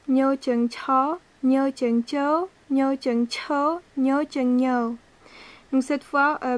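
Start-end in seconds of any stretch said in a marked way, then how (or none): 0.1-5.0 slow drill. Shown as a demonstration. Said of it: "On poursuit avec Nyo Chung Cho".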